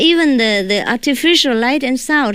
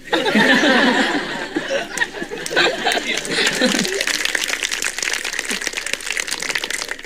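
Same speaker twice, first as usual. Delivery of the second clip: laugh; 8 semitones higher, 4 dB quieter than usual. Real, not acted. Joking about others' bad English.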